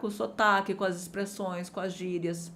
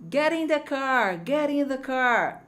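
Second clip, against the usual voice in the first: slow, careful model of the clip line; slow repeat; 3 semitones higher, slower than usual. Shown as a demonstration. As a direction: say it slowly, word by word. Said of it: "Duas vezes ainda". (repetição lenta e cuidadosa)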